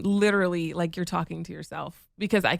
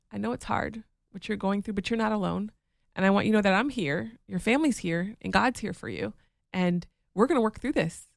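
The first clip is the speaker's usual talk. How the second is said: tender mom. Retold or imitated. Wife imitating her mom comforting her. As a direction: soothe like a loving mother. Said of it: "my mom would sit me down and be like".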